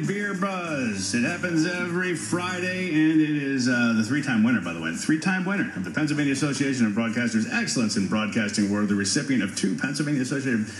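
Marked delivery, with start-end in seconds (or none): 1.1-10.7 running out of air on a long list; gasping through the credits; out of breath. Real, not acted. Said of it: "I'm out of breath with this".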